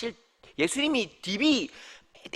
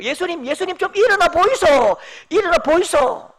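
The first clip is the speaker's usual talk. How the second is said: disciples shouting higher and louder in dialect; urgent waking shout; 6 semitones higher, 8 dB louder than usual. Acted. Disciples rousing sleeping Jesus in a storm, urgent shout. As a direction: cry out urgently to wake someone.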